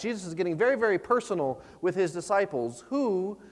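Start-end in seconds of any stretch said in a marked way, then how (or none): 2.9-3.4 solemn slow question. Acted. Jesus's question read solemnly.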